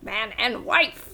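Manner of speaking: slow drawn-out "Man and wife" in the cleric's voice; mock clergyman pronouncing them wed; slow clergyman quote. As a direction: drag it out like the old cleric. Quoting the cleric.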